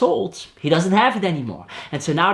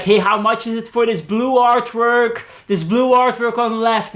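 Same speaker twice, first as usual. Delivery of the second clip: retold shout; 6 semitones higher, 3 dB louder than usual. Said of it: "And so he screams to the back".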